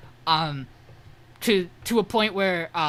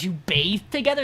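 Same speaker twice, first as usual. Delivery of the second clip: retold disbelief, stressing TOGETHER as a question; acted-out "wait, what?" reaction; incredulous question. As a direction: echo it back in mock shock. Colette reacts to the revelation.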